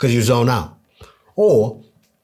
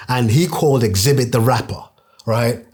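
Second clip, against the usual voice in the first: ordinary talk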